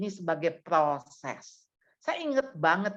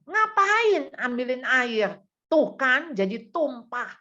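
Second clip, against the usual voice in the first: mildly acted angry father, higher and drawn out; snapping scold; 5 semitones higher, 3 dB louder, slower than usual. Father to child who spilled water, mild mock snapping. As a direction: scold with a touch of exasperation. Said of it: "dia bentak".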